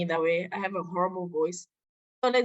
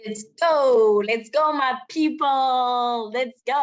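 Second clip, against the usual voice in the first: loud, drawn-out pep call; rally the class like a hype man; hype cheer; 2 semitones higher, 6 dB louder than usual. Real, not acted. Co-teacher hyping up class.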